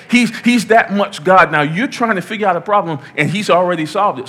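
preaching peak. Real, not acted. Preaching climax.

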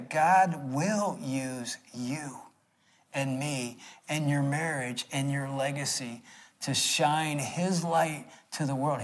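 slow, soft emphatic sermon line; earnest slow sermon delivery; slow preaching. Acted. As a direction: lay each phrase down slowly for the congregation.

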